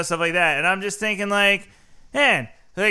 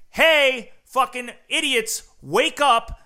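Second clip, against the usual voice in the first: mock shout; 4 semitones higher, slower than usual. Warning the public early, in a raised mock shout. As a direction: yell it like a blunt warning.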